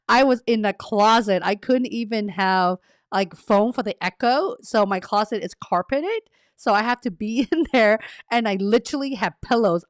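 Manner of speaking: real amusement, laughs breaking into the words; laughing at self. Real, not acted. Streamer recalls pillows in the closet, laughing at herself. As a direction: tell it while laughing at yourself. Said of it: "I'm laughing at myself".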